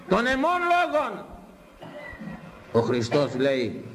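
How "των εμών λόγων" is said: "των εμών λόγων" high, slow and drawn out; emphatic repetition. Real, not acted. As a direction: proclaim "των εμών λόγων" stretched on a raised pitch. Repeats the verse phrase for emphasis.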